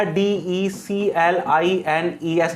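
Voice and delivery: letters said slowly one by one; spelling out slowly. Shown as a demonstration. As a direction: spell the word for students. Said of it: "next word जो आया". (धीरे-धीरे spelling)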